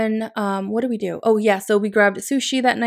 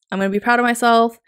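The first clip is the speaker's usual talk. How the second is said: louder, faster, proudly insisting; proud declaration; 3 semitones higher, 5 dB louder, faster than usual. Real, not acted. Vlogger to viewers, proudly declaring her workout win. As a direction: announce it like a victory. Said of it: "let me be proud".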